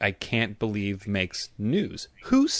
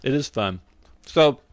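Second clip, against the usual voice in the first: talking through a mouthful of banana; chewing while talking; mouth full. Real, not acted. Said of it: "I'm sorry, I'm eating a banana".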